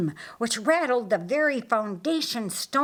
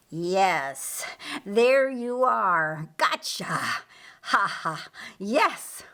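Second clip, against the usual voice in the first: slow whispered triumph; gloating Lucifer; slower than usual. Acted. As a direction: Lucifer finding Jesus, hissing in delight. Lucifer spots his prey.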